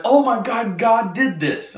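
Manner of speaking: high, excited voice of an overwhelmed man; retold amazement. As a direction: exclaim it high, imitating his awe. Man overwhelmed after the prayer.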